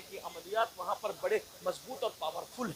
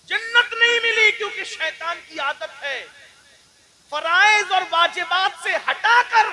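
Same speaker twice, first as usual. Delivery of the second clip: booming sermon; 8 semitones higher, 11 dB louder than usual. Acted. Preacher driving the point to the crowd, loud and high. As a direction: hammer the lesson home.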